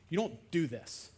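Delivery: normal talking voice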